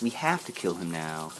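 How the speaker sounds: low, soft and matter-of-fact; hushed, unbothered retold quote; very calm. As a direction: imitate someone calmly stating a threat, voice dropped. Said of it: "he says it very calmly".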